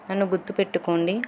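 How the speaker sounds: fast mock shout from afar; shouted call. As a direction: call it out quickly across the street. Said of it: "గట్టిగా అరిచాడు". (దూరం నుంచి గట్టిగా అరవడం)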